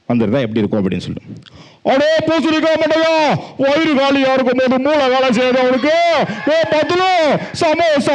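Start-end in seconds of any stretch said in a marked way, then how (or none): 1.9-8.1 very high cartoon voice; squeaky cartoon sidekick scolding; cartoon Motu voice. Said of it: "மோட்டு பத்து வந்து".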